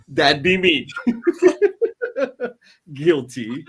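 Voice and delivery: laughing while admitting it; the host owns up to the launch-date joke, laughing; laughing confession. Real, not acted. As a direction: own up through a laugh. Owning up to the joke.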